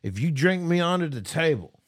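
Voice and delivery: lightly voiced sloshed dare; drunk stranger. Storyteller imitates a drunk man daring him to a drinking contest, slurred. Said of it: "He says".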